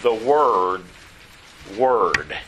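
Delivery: "word" set apart by pauses and repeated; single out "word" with deliberate pauses; emphasis on WORD. Real, not acted. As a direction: land firmly on "word", then say it alone. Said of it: "I want to emphasize".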